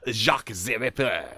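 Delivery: hammed-up French accent with buzzy "zee"; jokey French-accented name; mock French accent. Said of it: "'Cause it's New Orleans".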